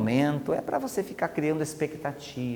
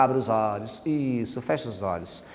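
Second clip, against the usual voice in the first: quiet, lower, heavy trance voice; softer hypnotic tone; 4 semitones lower, 7 dB quieter than usual. Shown as a demonstration. Hypnotist deepening trance, voice sinking quiet and low. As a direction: sink the voice down, heavy and soothing. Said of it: "E eu começo a mudar também a entonação".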